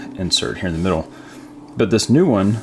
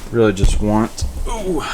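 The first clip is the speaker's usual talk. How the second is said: sniffling; 3 semitones higher, 4 dB louder than usual. Real, not acted. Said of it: "I'm sorry, I'm sniffling again".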